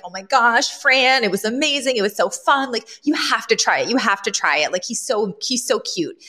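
lightly gushing excitement; imitating an excited girl; excited teen. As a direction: urge a friend to join in, mildly thrilled. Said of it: "Maggie comes running back out".

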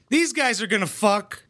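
usual speaking voice

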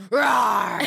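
loud, playful little lion roar; toddler roar. Retold or imitated. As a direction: roar like a tiny fierce lion cub. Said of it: "And she goes".

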